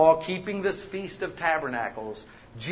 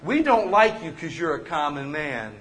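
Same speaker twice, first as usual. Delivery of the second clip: mock dismissive congregant; 3 semitones lower than usual. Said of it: "how people leave this church".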